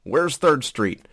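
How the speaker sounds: high-pitched, drawn-out, loud question; stoned driver. Acted. Stoned driver asking an officer directions, drawn-out comic voice. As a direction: play it high and slow as a stoned guy.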